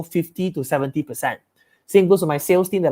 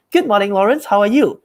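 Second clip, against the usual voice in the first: upbeat, friendly and short; smiling voice; 3 semitones higher than usual. Shown as a demonstration. Sales rep opening the call to Lawrence, smiling and upbeat. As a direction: greet with an audible smile. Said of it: "when I'm smiling and talking".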